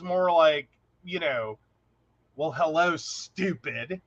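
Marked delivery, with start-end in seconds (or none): 2.4-4.0 low, muted contempt on the insult; hateful, aggressive. Retold or imitated. Psychic greeting a client at three a.m., hateful. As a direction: imitate a hateful tone, dropping softer on the last word. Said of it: "it comes out a lot more hateful".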